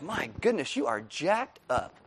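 low, hushed aside, slowing down; quietly appalled, drawing out the verdict; mock dismay. Talking to a messed-up Christian, quietly taken aback. Reacting to a flawed Christian friend.

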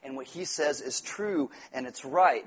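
low, hushed voice of someone stunned; stunned realization. Acted. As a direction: softly admit it, pitched well down. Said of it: "and you're like".

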